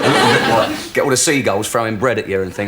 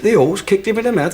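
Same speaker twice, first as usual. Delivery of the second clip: mock disbelief; 8 semitones higher than usual. Joke: owner repeats in disbelief.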